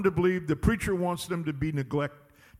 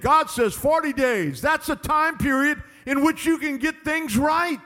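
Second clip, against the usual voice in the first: raised, emphatic sermon delivery; full-force preaching; 4 semitones higher, 4 dB louder than usual. Real, not acted. Preacher asking America about rejecting the gospel, forceful preaching. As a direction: press each question on the congregation.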